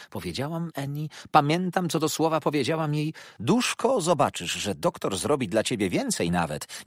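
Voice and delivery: high, loud meddling matron's voice; self-satisfied mother-in-law boasting; fussy old mother. Acted. Mrs Markleham's speech voiced.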